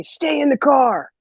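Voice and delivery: mild mock yell, high and drawn out; retold yell. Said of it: "My dad yells at me".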